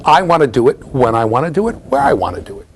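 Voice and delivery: a hint of a demanding toddler id; voicing the id. Lecturer voicing the id to students, lightly whiny. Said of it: "my id says".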